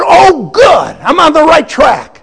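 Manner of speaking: loud high burst of relief; excited shout. Retold or imitated. Young man on the phone shouts his relief, loud and high. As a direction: yell it like you've finally found her. Relief at finding Pam's trail.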